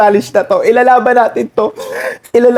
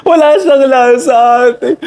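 ordinary delivery

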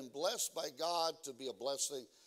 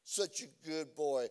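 doting mom; slower than usual. Retold or imitated. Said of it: "I'll never forget it".

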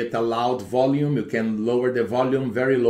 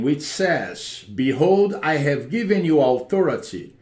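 praying. Acted. Deliverance prayer over the home.

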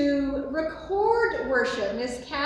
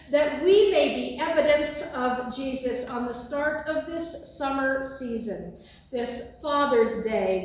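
sending forth; 3 dB louder than usual. Acted. Pastor sends the congregation out, solemn and measured. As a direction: lift the congregation out the door with solemn calm.

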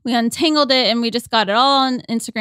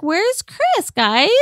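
calling out; 7 semitones higher, much slower than usual. Retold or imitated. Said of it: "I was like".

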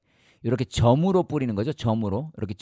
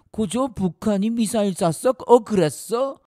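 high-pitched, hammed-up questioning; mock indignant surprise; 9 semitones higher, 3 dB louder than usual. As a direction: react to shocking news, voice jumping up. Acts indignant reaction to missile news.

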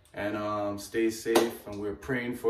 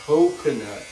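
loud playful Jamaican coconut; Jamaican accent; 10 dB louder than usual. Pretend. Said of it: "do the Jamaican way now".

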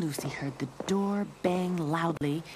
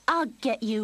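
higher, louder chase cry; eager raised voice; calling out; 6 semitones higher, 7 dB louder than usual. A narrator's reading. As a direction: call out just before pouncing. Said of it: "Lucy called".

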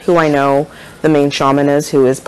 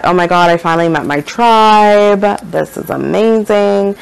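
lightly gush, stretching the last words; mildly gushing; 5 semitones higher than usual. Retold or imitated. Retells her delighted thought.

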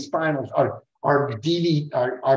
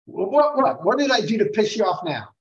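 much higher, startled what-did-I-do; baffled Gene; 4 semitones higher than usual. Retold or imitated. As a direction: play Gene caught off guard, defensive. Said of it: "Gene's like".

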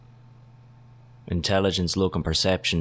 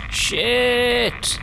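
very high loud shrieked shit; real high-pitched curse; furious shriek; 4 dB louder than usual. Real, not acted. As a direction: shriek it out in alarm. Cornered in game.

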